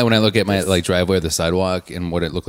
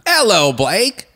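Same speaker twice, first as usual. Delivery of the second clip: high, loud put-on British hello; playful fake British lilt, pitched way up; mock British accent; 12 semitones higher, 5 dB louder, slower than usual. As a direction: greet them in a hammed-up British accent. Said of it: "I wasn't doing an accent".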